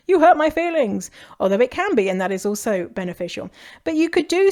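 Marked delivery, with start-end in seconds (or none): 0.1-1.1 a touch of hurt, pitched higher; serious hurt. Retold or imitated. Friend tells another about hurt, mild earnest hurt. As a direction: lightly play the wounded friend. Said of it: "serious and sitting down and being like".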